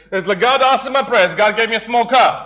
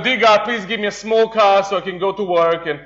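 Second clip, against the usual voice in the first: simple prayer. Retold or imitated. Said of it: "I had these simple prayers".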